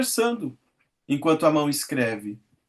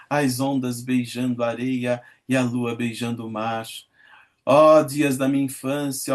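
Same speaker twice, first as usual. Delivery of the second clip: lower, measured verse reading; poem recitation; 3 semitones lower than usual. Acted. Teacher reading Meus Oito Anos to class, recited lyrically. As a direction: recite it like a school poem, savouring each line.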